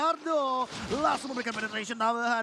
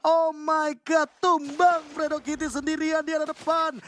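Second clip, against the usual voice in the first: excited shout; 5 semitones higher, 3 dB louder than usual. Real, not acted. Caster reacts to kill.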